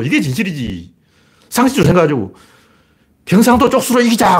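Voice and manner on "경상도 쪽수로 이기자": a hammed-up rally cry, pitched high; mock campaign slogan. Commentator mocking a party's regional slogan, high mock chant. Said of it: "그럼 써붙여".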